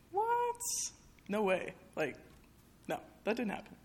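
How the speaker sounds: retold shock, as if hearing it for the first time; shocked disbelief. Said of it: "I was like".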